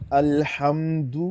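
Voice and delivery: drawn-out tajweed recitation for the student to copy; slow Quran recitation. Shown as a demonstration. Teacher recites slowly for the student to repeat. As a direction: recite slowly, stretching each vowel. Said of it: "اچھا جی، شروع کرتے ہیں".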